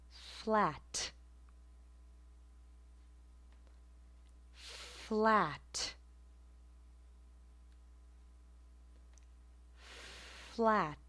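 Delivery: "flat" said carefully with a released t; demo pronunciation. Shown as a demonstration. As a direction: model "flat" with the t released at the ridge. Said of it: "And the last word will be".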